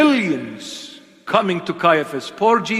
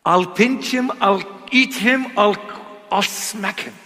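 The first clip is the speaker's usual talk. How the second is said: mock threat; 5 semitones higher than usual. Playful threat against the devil.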